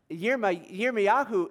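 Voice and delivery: Yirmiyahu said the Hebrew way, starting with a Y; Hebrew pronunciation. Shown as a demonstration. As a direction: say "Yirmiyahu" as yeer-mee-YAH-hoo. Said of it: "is Hebrew".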